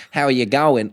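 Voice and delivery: casual imitated Aussie greeting; Australian accent. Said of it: "Australian accent".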